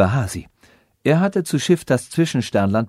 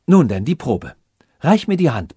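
louder royal command; commanding princess; 2 semitones higher, 4 dB louder than usual. Acted. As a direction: order him to give his hand. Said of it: "befahl die Prinzessin".

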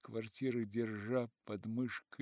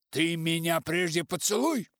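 loud demanding shout; 6 semitones higher, 10 dB louder than usual. A narrator's reading. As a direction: bellow it at him. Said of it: "кричал пожилой литератор".

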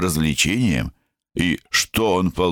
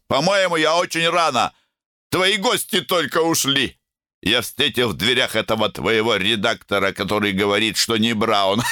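put-on very high, slurred drunk chatter; getting drunker; 7 semitones higher than usual. A narrator's reading. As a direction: babble like a drunk son. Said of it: "заплетающимся языком". (всё пьянее, заплетаясь)

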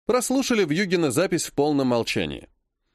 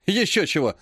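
snorting scoff; 4 semitones higher than usual. Acted. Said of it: "фыркнул он".

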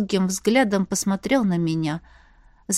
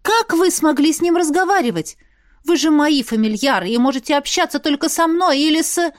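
a touch of indignant heroine, higher; voiced heroine; 6 semitones higher, 3 dB louder than usual. A narrator's reading. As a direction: scold the wolves, lightly indignant. Heroine scolds her familiars. (чуть возмущённая героиня, выше)

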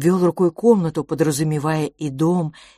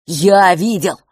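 louder cry of insistence; desperate shout at his brother; 8 dB louder, slower than usual. A narrator's reading. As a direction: yell it, fist to chest. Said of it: "закричал Франц".

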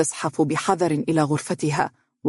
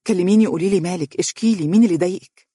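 near tears; 3 semitones higher, faster than usual. Acted. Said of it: "وبدا صوته يشبه البكاء".

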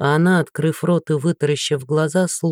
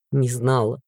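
bitter scoff; 4 semitones lower, 3 dB quieter than usual. Acted. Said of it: "Он горько усмехнулся".

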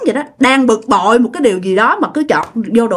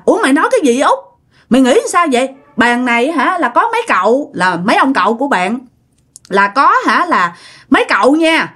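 scolding father; 3 semitones higher, faster than usual. Retold or imitated. Father scolds aunt, thinks drunk.

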